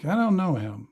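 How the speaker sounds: slightly hushed character reply; understated quiet aside; saying it quietly. Acted. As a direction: say it quietly, a little guarded. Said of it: "she kinda says quietly".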